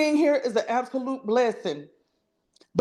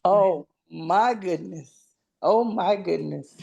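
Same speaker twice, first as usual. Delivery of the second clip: emotional; 4 semitones lower than usual. Real, not acted. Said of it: "I'm real emotional".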